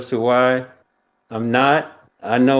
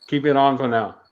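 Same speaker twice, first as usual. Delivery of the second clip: muffled behind a face mask; through a face mask. Real, not acted. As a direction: speak through a mask over the mouth. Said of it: "Excuse my mask".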